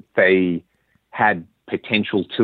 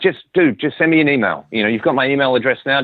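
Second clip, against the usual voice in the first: higher, keen voice, quicker on the last line; eager invitation; 5 semitones higher than usual. Retold or imitated. Doug insisting the fan email him, eager and higher. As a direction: urge him warmly to just keep in touch.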